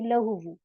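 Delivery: "लहू वू" unchanged, final oo syllable sounded; connected reading. Shown as a demonstration. Teacher telling students who don't pause, "लहू वू" read in full. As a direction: say "लहू वू" in full, no stop form. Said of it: "same ऐसे ही पढ़ देंगी".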